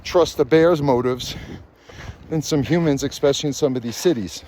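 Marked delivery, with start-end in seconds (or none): 2.3-4.4 talking through hiccups and burps; hiccuping. Real, not acted. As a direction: hiccups breaking into the words. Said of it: "Sorry, I'm just hiccuping and burping".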